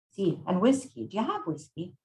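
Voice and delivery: put-on lightly accented old Italian woman; a touch of hammed-up Italian; Maria, Italian accent. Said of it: "I'm going to butcher an Italian accent".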